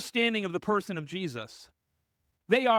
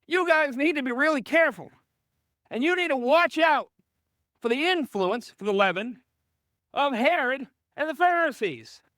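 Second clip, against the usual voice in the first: higher, louder earnest warning as Jesus; urgent warning; 5 semitones higher, 3 dB louder than usual. Retold or imitated. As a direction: warn the disciples with urgency. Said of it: "he probably just goes".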